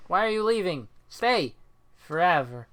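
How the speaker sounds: hammed-up cry not to go; mock pleading. Begs a leaving viewer to stay.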